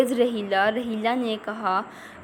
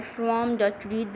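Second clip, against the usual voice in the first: slow reading aloud; 4 dB quieter, much slower than usual. Shown as a demonstration. Teacher reads text slowly.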